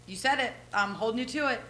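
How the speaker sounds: relieved excitement. Retold or imitated. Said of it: "And I'm like".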